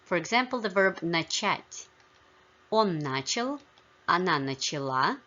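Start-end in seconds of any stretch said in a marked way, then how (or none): 2.7-3.6 начал stressed on the first syllable, НАчал; stress on stem. Shown as a demonstration. Teacher models masculine past of начать, stress on first syllable. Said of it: "the stress only shifts in the feminine". 4.1-5.2 начала stressed on the last syllable, началА; stress shifted to ending. Shown as a demonstration. Teacher shows shifting feminine form, stress on last syllable. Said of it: "the stress only shifts in the feminine form".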